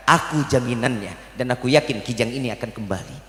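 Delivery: calm assurance. Acted. The Prophet vouching for the deer to the hunter, calm and low. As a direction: reassure him quietly.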